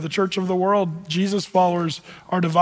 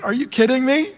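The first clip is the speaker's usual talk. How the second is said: higher-pitched, indignant mock outrage; incredulous scolding, raised pitch; fired-up Paul; 4 semitones higher, faster than usual. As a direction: act out an exasperated apostle telling people off. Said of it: "Paul's fired up".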